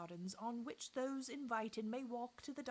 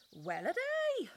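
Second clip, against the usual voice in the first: high, loud mock sigh; sarcastic; 9 semitones higher, 8 dB louder, slower than usual. A narrator's reading. Plants mocking Mamie, high loud sarcastic sigh. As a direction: groan it with heavy sarcasm. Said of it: "frightfully sarcastic".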